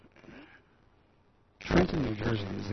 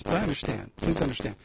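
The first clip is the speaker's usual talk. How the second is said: earnest plea; 5 semitones higher, 7 dB louder than usual. Real, not acted.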